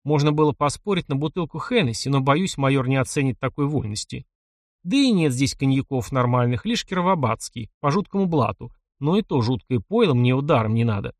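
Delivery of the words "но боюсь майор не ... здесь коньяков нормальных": ordinary delivery, nothing marked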